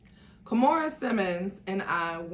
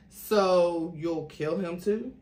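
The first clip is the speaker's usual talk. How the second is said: defeated, deflated; 3 dB louder, slower than usual. Acted. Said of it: "Jennifer looked defeated, deflated".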